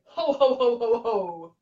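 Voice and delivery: lighter demo of the ho laugh, arms out; Santa laugh. Shown as a demonstration. Showing the arm movement while laughing, light Santa ho ho. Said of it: "you're kind of going".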